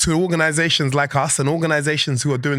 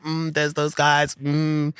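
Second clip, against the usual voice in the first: wary mock mutter; much slower than usual. Sizing up rivals at conferences.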